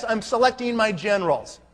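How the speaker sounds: confident posture. Shown as a demonstration. Recruiter modeling words for his audience, confident posture. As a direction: declare it like a commander choosing officers. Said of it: "listen to those words".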